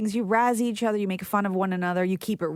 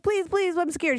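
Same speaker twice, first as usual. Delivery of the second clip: put-on pleading little kid; 9 semitones higher than usual. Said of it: "I'm like".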